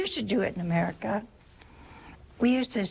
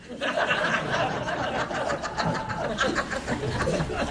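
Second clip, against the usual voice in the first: a long, delighted laugh; 6 semitones higher than usual. Real, not acted. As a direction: let the laugh rise and run on. Laughing at the sisters' reaction.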